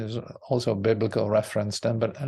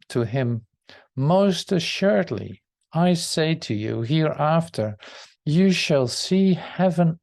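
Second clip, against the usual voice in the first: scripture reading; 2 semitones higher than usual. Acted. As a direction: read the passage aloud to the group, lifting the quoted speech. Reads the Bible passage aloud.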